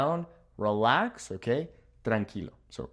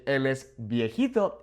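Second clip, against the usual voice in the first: "viejito" said kindly, a little softer; softer, nicer. Shown as a demonstration. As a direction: gently say "viejito" with fond softness. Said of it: "makes it sound a little bit softer".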